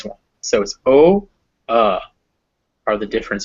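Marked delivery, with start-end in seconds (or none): 0.4-1.3 louder rounded "o" with pursed lips; rounded vowel. Shown as a demonstration. Teacher contrasts the rounded and unrounded vowels. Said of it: "you don't round your lips".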